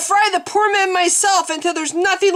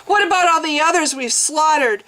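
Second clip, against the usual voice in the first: raging sobs; 7 semitones higher than usual. A narrator's reading. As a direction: demand answers through rage and tears. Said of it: "She was sobbing now with rage".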